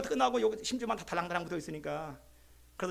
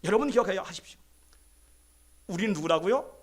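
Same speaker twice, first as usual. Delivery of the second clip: normal talking voice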